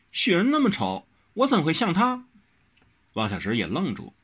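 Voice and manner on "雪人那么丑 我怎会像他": higher, every word spaced out. A narrator's reading. Wen Rou pressing Wang Xiaoshi, word by word. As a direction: spell out each word in protest. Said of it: "一字一句的道".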